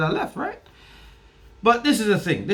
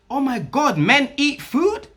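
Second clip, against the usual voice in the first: mock amazement; 5 semitones higher, slower than usual. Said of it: "she was amazed".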